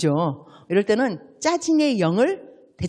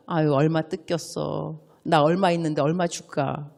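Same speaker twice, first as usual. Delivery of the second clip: compassionate friend; 5 semitones lower than usual. Retold or imitated. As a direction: comfort her gently and offer help. Compassionate friend offering money.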